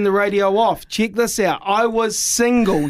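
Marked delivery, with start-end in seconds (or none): 1.6-2.9 drawn-out single, slow and falling; stress on single. Shown as a demonstration. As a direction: lean on the word single, slowly. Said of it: "You need to say that with me now".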